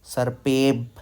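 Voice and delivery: सर्पेब with the half ब closing the second syllable; half-consonant demo. Shown as a demonstration. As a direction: land सर्पेब on a stopped b, no vowel after. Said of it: "ये वाला जो आधा बा है ना".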